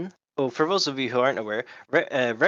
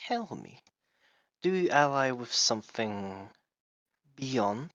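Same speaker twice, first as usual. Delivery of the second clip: put-on lizard accent; slower than usual. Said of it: "doing a lizard accent".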